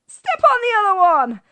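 high, loud, delighted shout; mock shout. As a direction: shout it as a cheeky punchline. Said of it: "then shouted out".

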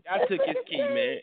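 high-pitched triumphant holler; excited brag. Real, not acted. Host boasting to co-hosts he took Khaled's key. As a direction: crow it out in victory. Bragging after retold confrontation.

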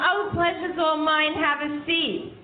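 lightly voiced mother-in-law being polite; gracious mother-in-law. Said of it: "She said".

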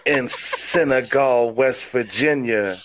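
deliberate mock-wrestler hype; wrestling promo. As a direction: cut a mock promo, drawing out the big phrases. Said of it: "forgot one part of the promo".

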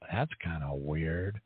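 low, slow retold puzzlement; slow, low-pitched mock bafflement; puzzled coworkers. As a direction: draw it out low, as baffled onlookers. Voices puzzled people at work.

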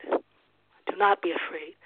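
slowed, each word weighed; slow emphatic repeat. Shown as a demonstration. Pastor repeating the verse to the congregation, slow and emphatic. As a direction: let it sink in slowly.

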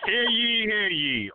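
booming proclamation call; town crier. Acted.

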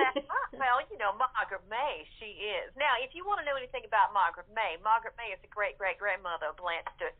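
put-on Southern belle accent, laughing at the end. Mo, as Margaret May, describes her character in a Southern accent. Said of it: "you do a good accent".

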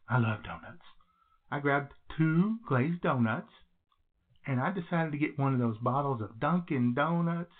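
echoey bathroom recording. Real, not acted. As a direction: speak in a small echoing bathroom. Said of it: "do I sound a little echoey today?".

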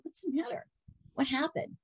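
high, alarmed what's-wrong voice; retelling her startled concern; concerned question. Retold or imitated. Wife retells asking upset husband.

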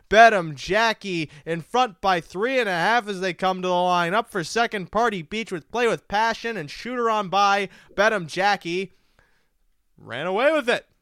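track announcer calling the stretch drive; race call. Acted. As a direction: build the call toward the finish line.

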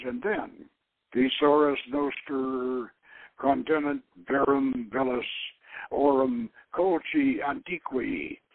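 slow, measured reading of an ancient text; solemn recitation. A narrator's reading. Doc reading the ancient letter in the museum, slow and solemn. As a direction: intone it like an old proclamation.

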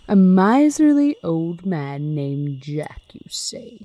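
slow spooky storyteller voice. Pretend. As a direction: draw it out like a ghost story. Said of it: "I'm gonna do it in my spooky voice".

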